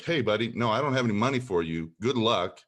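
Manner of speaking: assertive. Shown as a demonstration. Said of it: "say something assertively to them".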